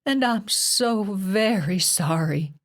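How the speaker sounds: slow, sob-broken apology; voice cracked with sobs. A narrator's reading. Mother apologizing to her daughter through sobs. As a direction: force it out slowly through sobs. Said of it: "Her mother's voice cracked with sobs".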